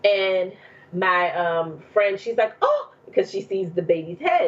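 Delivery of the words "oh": imitating a friend's high-pitched "oh"; mock startled yelp, much higher; startled gasp, retold. Friend spotting the baby's head, startled.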